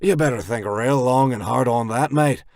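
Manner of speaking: loud gleeful taunt; too happy. A narrator's reading. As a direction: taunt them cheerfully. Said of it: "Skirt says a bit too happily".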